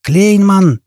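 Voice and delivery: high-pitched angry call; acted bellow, moderately loud; furious roar. A narrator's reading. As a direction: summon him in a rage. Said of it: "яростно взревел он".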